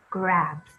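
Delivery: "Grabs" said briskly as one word; read it fast. Shown as a demonstration. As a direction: snap "Grabs" together in one beat. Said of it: "Read it fast".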